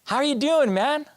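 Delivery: high, friendly hello through a smile; big-smile greeting. Acted. Converted classmate greeting Eric in the library, smiling. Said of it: "looks up with this big smile".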